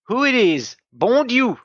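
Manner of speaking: put-on high old woman's voice, surprised and pleased; old lady welcoming visitors, high and cheery; old lady greeting. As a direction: greet the guests like a delighted grandmother. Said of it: "she says".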